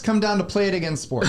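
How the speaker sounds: pushy ad voice, laughing through it; mock commercial pitch. Co-host joining the fake ad, hammed-up announcer voice. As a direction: pitch the store like a cheap TV spot.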